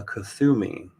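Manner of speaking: Kuthumi said with a TH, koo-THOO-mee; guessed pronunciation. Shown as a demonstration. Host guessing at a channeled master's name, Kuthumi as koo-THOO-mee. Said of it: "I would imagine that's how it's pronounced".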